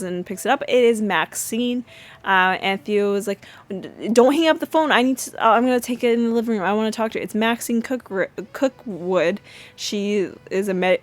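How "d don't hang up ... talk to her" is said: urgent plea. Retold or imitated. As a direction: hurry to stop him hanging up. Theo rushes to grab the phone.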